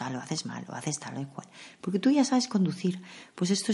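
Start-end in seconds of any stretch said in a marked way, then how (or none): 0.0-1.5 mock backseat criticism. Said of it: "Y pensamos".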